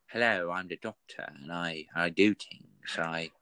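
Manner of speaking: a hint of the Eleventh Doctor, halting and playful. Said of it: "kinda do an eleventh, eleventh Doctor accent".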